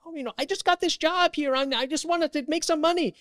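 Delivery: very high, loud mock Asian accent; squealed, put-on Asian accent. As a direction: plead in a hammed-up Asian accent. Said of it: "he has this Asian accent".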